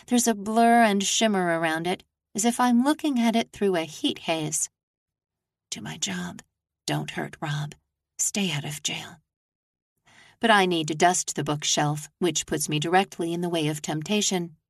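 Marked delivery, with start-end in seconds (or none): 5.7-9.2 muttered mantra. A narrator's reading. Repeating her muttered mantra.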